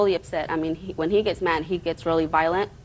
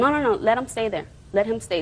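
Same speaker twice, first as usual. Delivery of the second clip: higher-pitched, mildly acted protest; insistent retold objection; 3 semitones higher than usual. Mother retelling her argument to the judge, insistent. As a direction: re-enact a firm "no, no, no".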